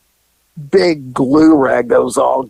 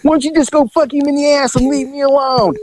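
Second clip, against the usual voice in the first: retold screaming; 11 semitones higher than usual. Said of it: "the whole time she's going".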